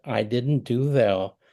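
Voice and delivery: slow, choked-up admission; lightly tearful apology, slowed down; voice near tears. Retold or imitated. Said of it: "with tears in my voice".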